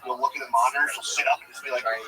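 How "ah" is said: put-on drawn-out baby wail; long mock infant cry; imitated baby cry. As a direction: mimic a baby freaking out in the crib. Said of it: "She's freaking out".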